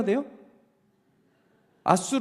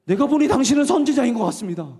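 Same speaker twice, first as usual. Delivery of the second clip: awed woman; 5 semitones higher, 4 dB louder than usual. Retold or imitated.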